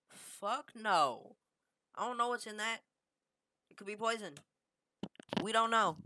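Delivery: high mock-alarmed objection; high-pitched refusal. Retold alarmed refusal to try it.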